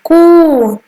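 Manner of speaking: कू sung out high with a long oo. Shown as a demonstration. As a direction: hold the oo in कू. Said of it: "बड़ा ऊ का उच्चारण है कू". (लंबा ऊ, कू)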